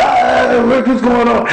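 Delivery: high wailing mock holler; imitated panicked hollering. Preacher re-enacts kicking as the lifeguard grabs him, imitated panicked hollering. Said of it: "I'm hollering".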